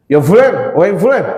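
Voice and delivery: commanding swooping shout-out; acted booming summons; lion-like call. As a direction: hail someone like a lion of a leader. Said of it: "suara singa lagi".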